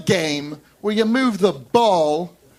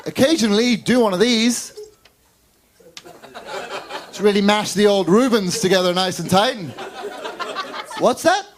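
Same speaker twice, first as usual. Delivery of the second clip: mock-cheery pep talk, pitched up; lightly voiced sleazy organizer; 3 semitones higher than usual. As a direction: act a man talking women into it. Acts men pitching volleyball to women.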